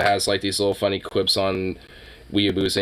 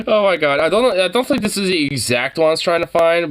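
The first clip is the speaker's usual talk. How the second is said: laughing; 8 semitones higher, 3 dB louder than usual. Real, not acted. Cracks up at the clip.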